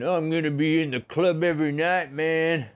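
mock party kid. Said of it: "all you kids watching, thinking".

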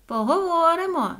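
high, called-out coaxing; sly invitation. A narrator's reading. Соня tries to trick the echo out, sly calling. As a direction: coax craftily while calling down. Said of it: "схитрувала Соня".

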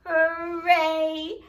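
loud happy cheer; cheerful shout. Pretend. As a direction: shout hooray with the kids.

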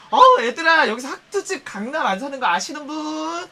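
loud teasing call to the group; rally the friends with a sneer; mock sarcastic friend. Mocking a bragging friend to the group. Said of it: "그러면은 이래".

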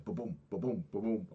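rhythmic mimicked pounding heartbeat; heartbeat imitation. Feeling head throb on chest machine, mimicked heartbeat. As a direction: thump it out like a pulse in the head. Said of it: "I could feel my head going".

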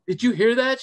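high, loud retold exclamation; mock astonishment. Guest retelling interviewer's reaction to a rock musician, mock astonishment.

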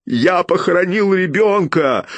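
anguished, near tears; choked grief. A narrator's reading. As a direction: push it out through a lump in the throat. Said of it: "Комок в горле мешал говорить".

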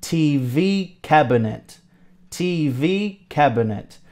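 "T V cabinet" with a soft, unstressed middle, said like "cab'net"; model pronunciation. Shown as a demonstration. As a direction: show how "cabinet" loses its I. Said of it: "we don't really pronounce".

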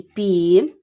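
"пі" drawn out as a syllable on its own; slow, separate first syllable "пі"; isolated syllable. Shown as a demonstration. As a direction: stretch the vowel of "пі" slowly. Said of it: "три склади".

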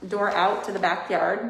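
muffled behind a mask; talking through a face mask. Real, not acted. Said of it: "I don't know if you guys can hear me through this mask".

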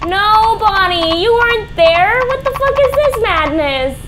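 high, loud panic; panicked high yell. Real, not acted. Gamer panicking as Bonnie appears, yelling. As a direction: shout in disbelief.

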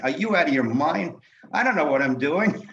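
alarmed protest. Retold or imitated. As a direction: exclaim it like you just jumped clear. Jumps from van, protests to boss.

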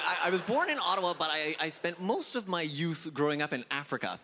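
usual speaking voice

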